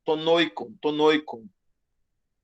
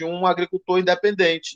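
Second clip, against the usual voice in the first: ordinary delivery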